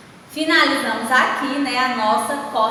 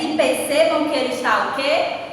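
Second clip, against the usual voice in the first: normal talking voice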